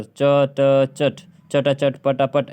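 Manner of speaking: "चट, चटा चट" with hard T sounds; wrong readings. Shown as a demonstration. Teacher mocking up misreadings for students, hard T in "चटा चट". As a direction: break "चट" into cha and ta, then rattle "चटा चट". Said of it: "ऐसे नहीं पढ़ेंगे हम लोग".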